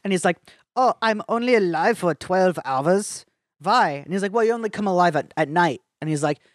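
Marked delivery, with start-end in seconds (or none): 0.8-4.0 a light mock German accent as Einstein; lightly put-on German accent, playing Einstein. Podcast host doing Einstein in a mild mock German accent. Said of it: "That was my German accent". 4.3-5.8 a light mock German accent as Einstein; lightly put-on German accent, playing Einstein. Podcast host doing Einstein in a mild mock German accent. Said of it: "That was my German accent".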